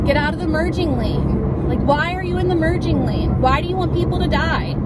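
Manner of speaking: high exasperated ranting at a driver; dad stuck in traffic. Real, not acted. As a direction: scold the car ahead.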